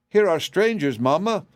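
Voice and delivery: put-on high-pitched child calling to mother; small, shrill kid's voice; shrill childish voice. A narrator's reading. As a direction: cry out like an excited small child. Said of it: "cried the shrill and childish voice".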